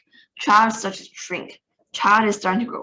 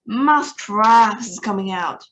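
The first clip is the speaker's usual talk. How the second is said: louder witch proclamation; loudest shout; 4 dB louder, slower than usual. A narrator's reading. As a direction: bellow the big reveal. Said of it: "raised her voice louder than ever and shouted".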